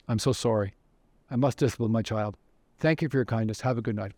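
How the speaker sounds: low, contained apology; composed apology. Retold or imitated. Opera singer placates the Nazi at her door, composed apology.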